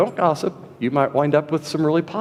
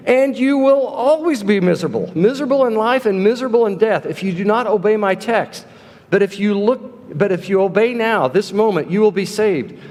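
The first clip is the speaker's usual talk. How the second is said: raised, insistent preacher's warning; mock fervent preacher; 4 semitones higher than usual. Lay preacher warns miserable young stranger from the pulpit, mildly fervent. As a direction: warn him like a pulpit preacher, pitched up.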